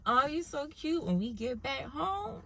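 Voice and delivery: high, soft mock giggling and cooing; giggly date mimicry. Dates across the table on Valentine's Day, giggly high cooing. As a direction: coo it in a high, hushed, giggly voice. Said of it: "like, giggling".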